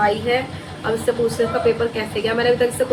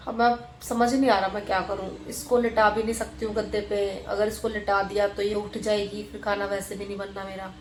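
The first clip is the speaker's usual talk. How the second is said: speaking softly; 8 dB quieter than usual. Real, not acted. Mother vlogging beside her sleeping baby, softly. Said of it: "आपको मेरी आवाज़ बहुत कम आ रही होगी क्योंकि ताशु की वजह से".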